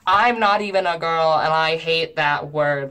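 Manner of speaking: loud, emphatic objection; real indignation. Real, not acted. Objecting to his word for women, indignant. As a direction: raise the voice in indignant protest.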